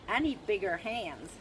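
badly faked American drawl; slow, dodgy attempt at an American accent. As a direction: put on a poor American accent. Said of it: "that was a very dodgy American accent".

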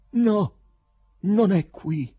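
high, loud cry of dismay; afflicted exclamation. A narrator's reading. Poet searching under the table, loud and afflicted. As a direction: exclaim it loudly, distressed. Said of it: "esclamò con afflizione".

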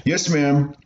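put-on a scared kid hiding something from his mother; nervous young boy. Boy stammering to his strict mother.

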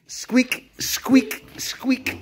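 soft, unvoiced mouse squeaks fading away. Shown as a demonstration. Teacher imitating a mouse for class.

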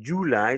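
"July" stressed up front, JU-ly; wrong stress on JULY. Shown as a demonstration. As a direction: punch the first syllable of "July". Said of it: "ça fait mal à l'oreille".

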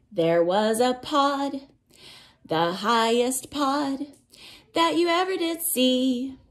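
storybook reading. A narrator's reading. Teacher reading a rainforest picture book to children, lilting read-aloud. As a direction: chant the cumulative verse to little listeners.

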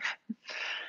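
real breathy little laugh; soft laugh. Real, not acted. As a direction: laugh it off quietly. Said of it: "I'm laughing 'cause it's".

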